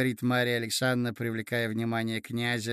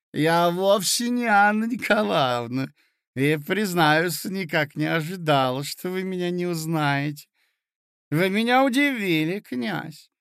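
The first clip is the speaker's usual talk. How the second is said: society lady voice; 4 semitones higher, 3 dB louder than usual. Acted. Hostess reproaching the prince.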